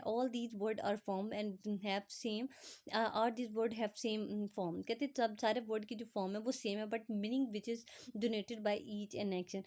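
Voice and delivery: reads the English definition word by word, very slowly; slow dictation reading. Acted. Teacher reading the textbook definition to students, slow dictation. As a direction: spell it out slowly for students to copy.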